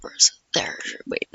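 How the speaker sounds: whispered under the breath while searching; hushed, breathy search for the link. Real, not acted. To himself, hunting for the link, in a whisper.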